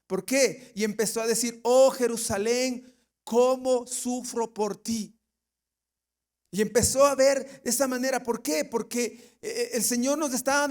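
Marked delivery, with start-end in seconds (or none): 1.6-5.1 slow, drawn-out mournful cry; anguished lament. Acted. Preacher voices Jesus weeping over Jerusalén, slow anguished lament. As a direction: grieve slowly over the city. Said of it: "mi alma se conmovió en gran manera".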